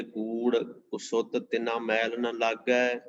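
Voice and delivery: drawn-out, measured reading of a holy verse; slow devotional recitation. Acted. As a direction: intone each word of the verse with reverence. Recites scripture verse slowly.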